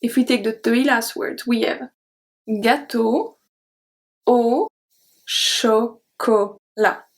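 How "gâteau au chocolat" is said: chocolat drawn out slowly, hard O; slow model word. Shown as a demonstration. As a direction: stretch chocolat to show the hard O. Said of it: "Do you hear the difference?".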